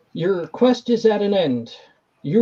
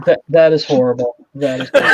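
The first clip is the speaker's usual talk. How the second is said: laughing disgust; 5 semitones lower, 5 dB louder, faster than usual. Real, not acted.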